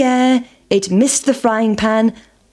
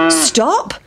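cow shouting; 5 semitones higher than usual. Acted. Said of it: "shouted the cow".

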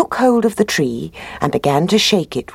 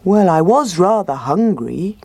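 bear voice; 4 semitones higher than usual. Acted. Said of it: "said the bear".

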